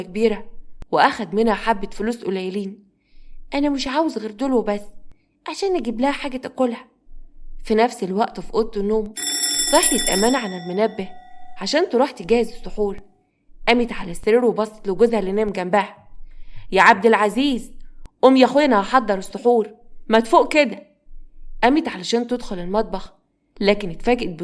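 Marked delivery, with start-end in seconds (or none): 3.5-6.9 put-on higher, small child voice; little boy reasoning with himself; timid young boy. 16.7-20.9 mildly raised wake-up call; impatient wife rousing her husband. Acted. Wife waking sleeping husband.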